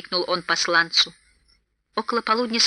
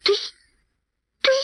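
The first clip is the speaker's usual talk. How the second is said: mild yell; 11 semitones higher than usual. A narrator's reading. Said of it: "завопил Торин".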